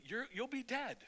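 ordinary talk

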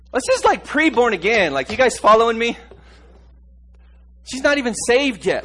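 preacher lifting the congregation with a loud, high pitch; preaching at full force. Acted. Preacher to his congregation about the adulteress, preaching loud.

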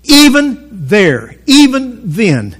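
very slow, stretched-out "even"; slow, deliberate weight on "even"; stress on EVEN. Real, not acted. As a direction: draw out "even" in each short phrase. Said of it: "I'm emphasizing this word on purpose".

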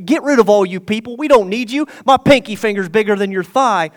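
quick, mildly heated mock insult; insulting dismissal. King insulting the old generation, brisk mock scorn. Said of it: "he insulted the old generation".

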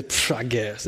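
low, soft mock reluctance with a dismissive puff; indifferent acceptance. Woman answering a proposal without interest, indifferent acceptance.

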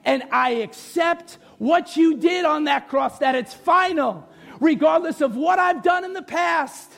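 slow prayer in spaced phrases; leading a prayer. Real, not acted. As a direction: pray line by line for others to repeat. Leads repeat-after-me prayer.

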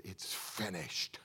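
It's finished breathed out slow; a slow hushed whisper, as if dying. Retold or imitated. Preacher voicing Jesus on the cross, slow whisper. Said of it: "he lifts a big shout and he said".

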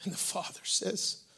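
whispered, intimate retelling. Retold or imitated. Pastor recalling God's answer in the yard, whispered. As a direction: hush it as if confiding a secret. Retelling a private moment with God.

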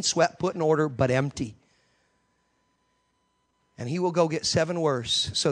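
loud, driving pulpit delivery; preaching at full force. Acted. Preacher to congregation about demons returning, full-force preaching. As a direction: preach it out to the whole room.

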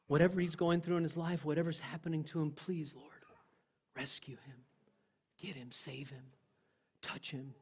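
plea fading to very soft, broken by long pauses; weeping prayer. Retold or imitated. Praying at the wheel for a stranger, weeping prayer. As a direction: re-enact a hushed, earnest intercession. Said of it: "I'm praying for him".

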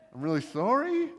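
hesitant, comic apology drifting upward; mock awkward apology. Sailors to bobbing Jonah as they drift away, awkwardly apologetic. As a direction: apologise sheepishly, playing it for laughs. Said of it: "It was just this awkward thing".

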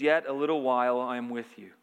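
gentle, fatherly retelling; tender. Retold or imitated. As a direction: speak tenderly, like a father to his children. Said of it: "very tenderly, says".

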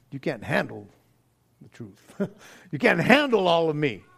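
movie line quote. Retold or imitated. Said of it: "he's going".

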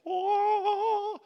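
high, loud gasp of wonder; a sudden awed oh at the sight; breathless high wonder. Acted. Awed exclaim at shining face.

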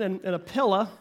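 "pillow" ending in a schwa, as pilla; Okie "pillow". Shown as a demonstration. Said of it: "you might hear words like this".

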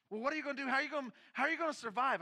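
high, fast anxious questions; frantic wife. Retold or imitated. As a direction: rush the worried questions. Wife pressing him, fast.

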